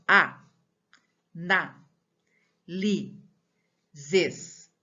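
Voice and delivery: "A, na, li, zes" as separate beats with long pauses; one syllable per breath. Shown as a demonstration. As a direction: count out "A, na, li, zes", one voice pulse each. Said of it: "a sílaba é uma única emissão de voz".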